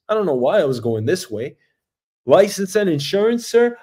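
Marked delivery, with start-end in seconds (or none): 2.3-3.8 mock cop. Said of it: "hand my license over to the police".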